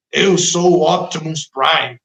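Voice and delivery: slow put-on robot hero voice; child's toy voice. Preacher mimicking a child playing with a toy, in a put-on toy voice. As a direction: play a kid voicing a toy robot. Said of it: "até muda de voz".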